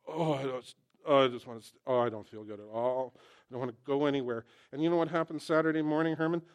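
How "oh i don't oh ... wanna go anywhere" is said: mock whiny groan. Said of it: "I was like".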